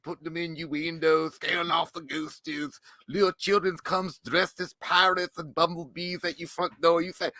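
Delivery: creepy broken-grammar creature voice; Slender Man. Acted. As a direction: play a simple-minded creature fond of Halloween. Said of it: "Can Slender Man and a rapper talk".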